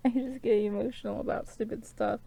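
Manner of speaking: tearful, apologetic and emotional; real crying. Real, not acted. Apologising to viewers for getting emotional, crying. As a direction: apologise through your tears. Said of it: "I'm crying".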